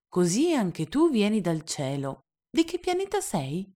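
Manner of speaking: put-on high child voice, eager; the boy asking which planet; curious little prince. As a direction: ask brightly like a boy.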